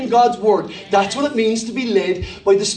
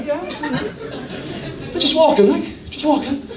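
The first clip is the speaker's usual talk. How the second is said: rapper wannabe; 3 semitones higher, much slower than usual. Acted. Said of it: "thought that he was Tupac Shakur".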